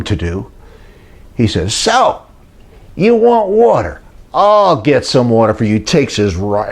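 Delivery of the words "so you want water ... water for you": 1 sarcastic Moses. Retold or imitated. Moses mocks the thirsty people.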